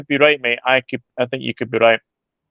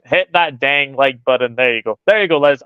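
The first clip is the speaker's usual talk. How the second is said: bad American accent. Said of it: "my really bad impression of American accent".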